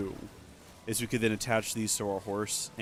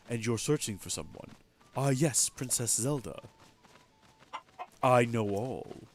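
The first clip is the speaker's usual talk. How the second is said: a slightly lowered, solemn oracle chicken; deep chicken voice. Acted. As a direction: speak as a wise old chicken testing the hero. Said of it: "why the chicken has such a deep voice".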